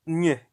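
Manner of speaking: "ñ" said as a short "nyeh"; Spanish ñ sound. Shown as a demonstration. Teacher explaining the tricky letter, isolated nyeh sound. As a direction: sound out "ñ" as n gliding into y. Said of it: "almost sounds like".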